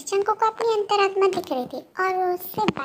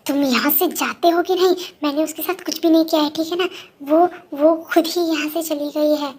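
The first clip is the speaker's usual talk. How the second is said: louder, rushed denial; defensive snapping; 4 dB louder than usual. Acted. Jungkook snapping at his conscience, defensive and loud. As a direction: bark back, fast and defensive.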